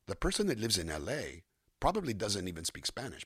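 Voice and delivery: subtle L.A. Mexican-American accent; slight Mexican-American accent. Shown as a demonstration. Voice actor showing an L.A. speaker, slight Mexican-American accent. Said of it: "this little bit of an accent".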